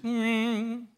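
stung hum sliding into slow hurt words; mock-wounded wife, drawn out; wounded reaction. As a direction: take it as a slow-sinking hurt. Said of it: "her hurt meter just went".

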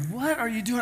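a seatmate needling you; pushy seatmate. Retold or imitated. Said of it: "the guy next to you is like".

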